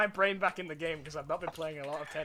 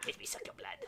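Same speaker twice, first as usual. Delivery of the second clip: vampire voice; 11 dB quieter, faster than usual. Acted. Mock vampire line.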